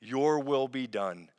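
slow, measured prayer lead; Lord's Prayer. Acted. Pastor leading the online congregation in the Lord's Prayer, slow and measured. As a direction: pray it slowly, leading the people.

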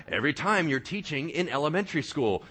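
ordinary talk

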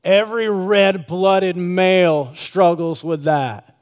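slow, drawn-out shrug of an excuse; lightly mocking the macho excuse; dismissive excuse. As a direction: brush it off like it's nothing. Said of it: "He says".

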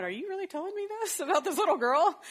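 high, loud, half-laughing disbelief; incredulous. Retold or imitated. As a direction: react as if you can't believe your ears. Retelling her reaction to the teacher.

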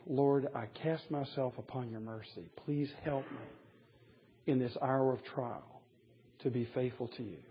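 soft, subdued prayer; humble plea. Retold or imitated. Peter begging Jesus for strength, soft humble plea. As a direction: plead quietly, submitting to mercy.

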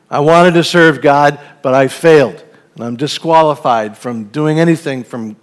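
resigned admission of failure, with understated discouragement; Peter. Acted. Peter confesses he failed God and is just a fisherman, defeated. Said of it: "saying this with a defeat in his voice".

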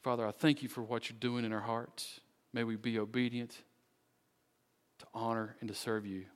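measured, earnest prayer with long pauses; closing prayer. Real, not acted. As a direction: pray aloud for the congregation, phrase by phrase.

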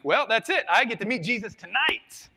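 high, loud comic despair; mock doom. Boy sure his dad will end him, mock doom. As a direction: cry out in hammed-up resignation.

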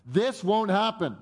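acted-out adamant protest; aggressive insistence. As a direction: put your foot down as Peter. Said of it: "There's a kind of aggression to his response".

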